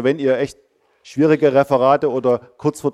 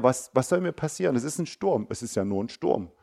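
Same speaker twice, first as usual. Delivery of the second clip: softly, gently dismissive of the storm; calm reassurance; 7 dB quieter than usual. Acted. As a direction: say it softly, nothing to fear. (leise beruhigend: nur ein Sturm)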